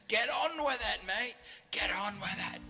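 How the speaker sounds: high-pitched British-style heckle; heckler. Retold or imitated. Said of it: "Just like a heckler".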